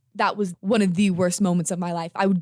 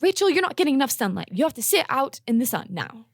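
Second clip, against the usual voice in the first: mom voice; 6 semitones higher than usual. Retold or imitated. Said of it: "she'd say".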